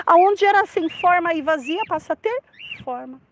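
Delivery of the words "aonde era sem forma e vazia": usual speaking voice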